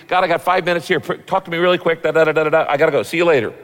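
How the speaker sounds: hurried imitation of a busy pray-er; mock frantic. Busy believer giving God five minutes, mock frantic. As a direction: rattle it off as if rushing out. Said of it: "If you're frantic".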